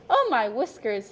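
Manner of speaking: a light surprised gasp; mild startled exclamation; a touch of surprise at a treasure. Acted. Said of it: "he gasped".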